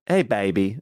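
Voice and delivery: a touch of Kansas accent; lightly twang it, Kansas style; slight Kansas twang. Shown as a demonstration. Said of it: "Just a little bit of twang".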